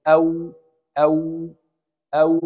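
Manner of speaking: او with rounded lips; isolated او, lips rounded; waw sound demo. Shown as a demonstration. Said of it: "الواو شوف من الشفتين ازاي".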